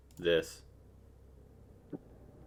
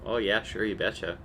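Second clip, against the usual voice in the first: put-on Minnesota accent. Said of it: "I still got my northern genes".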